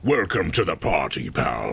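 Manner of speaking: put-on low gruff Belfast accent. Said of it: "You can actually do the Belfast voice".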